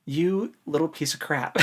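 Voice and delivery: lightly voiced scornful crook; a hint of a nasty thief boss insulting a boy; Thief Maker's sneer. Podcaster voicing the Thief Maker scolding Locke, mild sneer. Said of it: "dialogue that is used by the Thief Maker".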